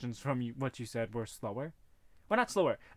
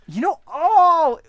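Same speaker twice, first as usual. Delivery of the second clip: sudden exclaim; 17 dB louder, much slower than usual. Acted. Sudden exclaim, loud slow.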